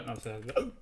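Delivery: talking through hiccups; speech broken by a hiccup. Real, not acted. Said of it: "I got the hiccups".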